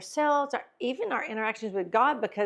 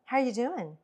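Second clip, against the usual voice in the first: flat downbeat tone; 2 semitones higher than usual. Shown as a demonstration. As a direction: say it with no life in it. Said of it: "complete difference in your tone".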